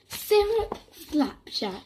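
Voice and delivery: slow, dragged-out demon voice; possessed voice. Acted. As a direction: drag it out like a possessed child. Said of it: "enough of the possessed voices".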